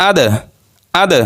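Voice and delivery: আদ with the final দ released in a bounce; qalqalah bounce. Shown as a demonstration. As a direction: jolt the দ at the end of আদ. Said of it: "এগুলো একটু ধাক্কা দিয়ে পড়তে হবে".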